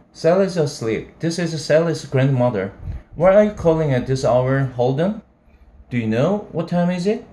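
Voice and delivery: stern grandmother. Acted. Grandmother answering late call.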